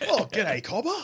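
broad Aussie accent, mock; laconic outback drawl. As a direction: ham up an outback bloke. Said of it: "mock Aussie tourist voice".

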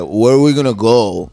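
lightly imitated comedian's voice; a hint of his friend's odd way of talking; Mark DeBonis impression. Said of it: "his voice is like".

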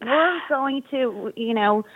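lightly voiced airy teenager; teen voice. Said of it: "They're like".

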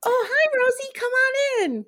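high, bright hostess greeting; Ellen voice. Pretend. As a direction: play the chipper contestant welcoming a friend. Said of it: "I'll be her and you be friend Rosie".

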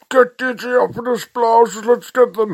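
squeaky goblin attack cry; high goblin voices. Acted.

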